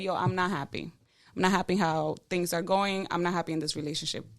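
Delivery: low, measured retelling of a talk; understated, serious quote; calm acted confession. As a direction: state it evenly to a partner, pitched low. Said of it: "do you say it like that?".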